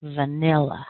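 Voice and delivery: "Vanilla" said slowly as three clear syllables; "Vanilla" with a long middle syllable, falling at the end; three-syllable demo. Shown as a demonstration. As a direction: model "Vanilla" for a learner. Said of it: "three syllables".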